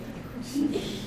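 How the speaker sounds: short, soft scoffing laugh; dismissive laugh. Acted. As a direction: laugh off the suggestion. Scornful laugh at accusation.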